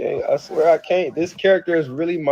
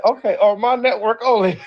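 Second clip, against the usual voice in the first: laughing mock of mom, much higher and loud; imitating mom as if she were a TV host, cracking up; mom's snooty reply; 10 semitones higher, 4 dB louder than usual. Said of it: "She said".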